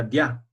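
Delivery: dia, i and a glided together as one syllable, dya; no break between the vowels of dia. Shown as a demonstration. Teacher shows the class dia said without its tilde. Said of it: "Así se tendría que pronunciar".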